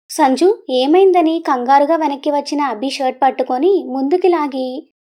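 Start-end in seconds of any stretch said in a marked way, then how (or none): 0.1-1.4 worried call. Acted.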